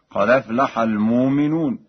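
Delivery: "قد أفلح" as "qadaflaha", no hamza; Warsh recitation. Shown as a demonstration. Teacher illustrating Warsh's vowel transfer, "قد أفلح" recited "qadaflaha". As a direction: run "قد أفلح" together, "qa-daflaha". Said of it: "نقل حركة الهمز إلى الساكن قبله".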